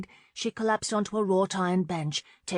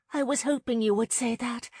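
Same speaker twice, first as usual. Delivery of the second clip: murmured; 6 semitones higher than usual. Acted. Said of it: "Marlene murmured".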